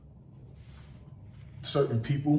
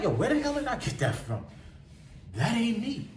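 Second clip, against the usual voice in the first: shocked at himself; 10 semitones higher than usual. Retold or imitated. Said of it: "And I'm like".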